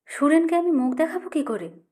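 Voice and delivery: high, pained cry that cracks; a mother's shout breaking into tears; voice breaking mid-shout. A narrator's reading. Mother cries out at her jobless son, voice cracking. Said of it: "চিৎকার করতে গিয়ে মার স্বর ভেঙে আসে".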